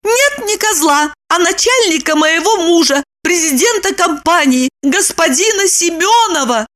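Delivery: high, blurted out; Lipochka blurting. A narrator's reading. Lipochka revealing the victim to Roman. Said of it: "выпалила Липочка".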